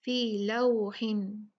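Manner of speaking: slow फी लौहिन with a rounded glide in लौ; rounded waw. Shown as a demonstration. Teacher reciting with round lips, slow glide in लौहिन. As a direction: ease from a into w in लौहिन. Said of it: "होंठों को गोल करें".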